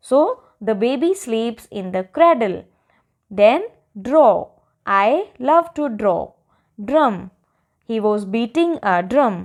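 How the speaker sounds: put-on each sentence read out very slowly for children; slow dictation. Teacher reading model sentences to young pupils, very slow and clear. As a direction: spell the sentence out word by word like a patient teacher.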